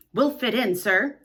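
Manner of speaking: a touch of eager assurance; assuring. Acted. The boys assuring Mister Darling, eager. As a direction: promise him warmly. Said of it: "they assured him".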